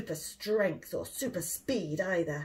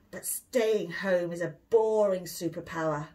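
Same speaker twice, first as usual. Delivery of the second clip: louder grumbling on boring; grumpy boy; 5 dB louder than usual. Acted. William grumbling to his mummy about staying home. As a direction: sulk it out like a bored child. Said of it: "said William in a grump".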